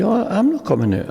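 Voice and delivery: grumpy refusal. Retold or imitated. Publican woken at three a.m.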